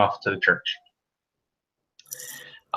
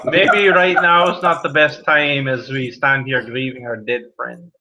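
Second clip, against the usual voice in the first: put-on old man gently rebuking; a hint of stern mourner; lightly voiced old man; 2 semitones higher than usual. Old man chiding the boy while grieving.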